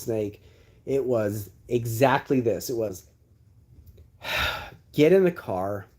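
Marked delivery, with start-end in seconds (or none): 4.9-5.9 flat curt order. Retold or imitated. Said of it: "just like that".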